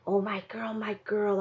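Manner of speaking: soft unvoiced whisper. A narrator's reading. Ellie whispering to her dog Maisie in the dark woodshed. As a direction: breathe it to the dog, barely voiced. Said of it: "I whispered".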